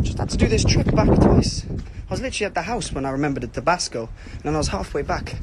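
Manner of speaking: breathless after rushing back; puffing between words; out of breath. Real, not acted. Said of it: "I'm out of breath".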